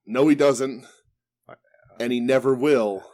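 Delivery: a hint of Bret Hart, not a real impression; lightly voiced, cool and firm Hitman; low cool menace. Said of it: "I can't do a Hitman voice".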